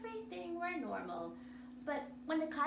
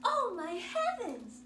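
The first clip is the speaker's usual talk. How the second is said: mother's cry, louder and higher; cried out; 5 semitones higher, 8 dB louder than usual. Acted. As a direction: gasp it out as a shocked mother. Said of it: "she cried".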